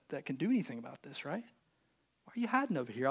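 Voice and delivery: soft, gentle voice of God calling a hiding friend. Acted. God gently asking a hiding man, soft and coaxing. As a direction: coax him out softly, like an old friend. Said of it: "he comes gently to our heart".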